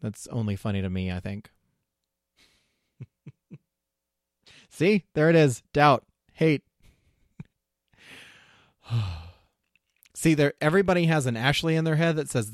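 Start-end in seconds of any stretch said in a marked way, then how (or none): 4.7-6.6 doubt voice. Retold or imitated. Voicing the doubt inside her head.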